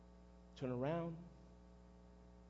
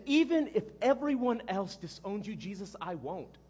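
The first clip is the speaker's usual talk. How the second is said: louder, insistent pledge, easing at the end; earnest vow; 2 semitones higher, 4 dB louder than usual. Acted. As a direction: swear loyalty with full conviction. Peter's earnest pledge to Jesus.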